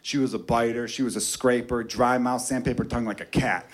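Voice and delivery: a lazy guy friend whining; buddy complaining. Retold or imitated. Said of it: "and he was like".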